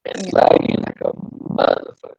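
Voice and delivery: cutting-out call audio; glitchy internet call voice; laggy video call. Real, not acted. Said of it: "Yeah, that's bad".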